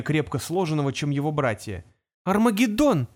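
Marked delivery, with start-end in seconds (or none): 2.2-3.1 loud proclamation from above; announcing shout. A narrator's reading. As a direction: announce it from the tower top. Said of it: "объявил сверху Майлз". (громкое объявление сверху)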